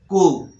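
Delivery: कु as "coo", with no P sound; correct pronunciation. Shown as a demonstration. Teacher shows how coup is said, correct pronunciation. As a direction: end कु on the vowel, P silent. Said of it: "कु बोलना है यहाँ पर".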